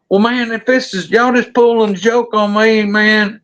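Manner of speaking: high-pitched, disbelieving protest; rattled buddy. Retold or imitated. Buddy insisting friends are pulling a joke, rattled.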